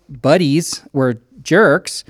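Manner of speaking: slow, ironic "buddies"; air-quote sarcasm. Retold or imitated. Pastor mocking his old scout friends, slow ironic air quotes.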